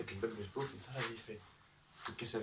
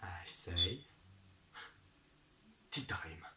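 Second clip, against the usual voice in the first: hushed English "tea time"; whispered trigger word; much slower than usual. Retold or imitated. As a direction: murmur it like a secret code.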